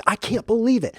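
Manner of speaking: high-pitched mock disbelief; incredulous. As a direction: act out not believing it. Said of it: "And incredulous means".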